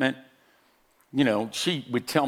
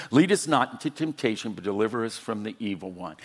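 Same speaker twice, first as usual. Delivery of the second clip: reciting prayer; 4 semitones lower, faster than usual. Retold or imitated. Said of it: "we began to recite it".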